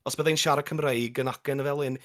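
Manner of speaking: demonstrating North Walian Welsh; North Walian accent. Shown as a demonstration. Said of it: "you know, if I was to talk".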